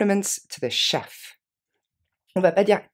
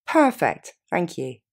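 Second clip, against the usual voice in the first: bright pleased perfect; 4 dB louder, slower than usual. Shown as a demonstration. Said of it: "Encore une fois".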